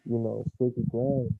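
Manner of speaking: muffled, like through a wall. Real, not acted. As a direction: voice dampened behind a wall. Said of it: "is that him sounding muffled again".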